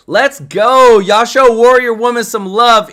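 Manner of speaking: loud, upbeat hype shout; hype cheer. Real, not acted. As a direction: cheer the donor on. Cheering a first-time donor.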